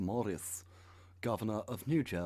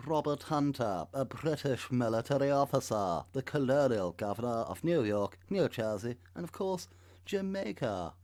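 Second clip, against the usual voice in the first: louder, building to much higher on Jamaica; mock grandeur; 6 semitones higher, 8 dB louder than usual. Reading out the governor's titles, mock pompous and building. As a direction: announce the titles like a herald, climbing up.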